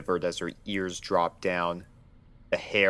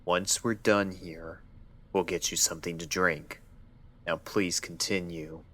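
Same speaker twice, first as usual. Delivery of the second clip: flat voice; 4 dB quieter than usual. Acted. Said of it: "His voice was flat".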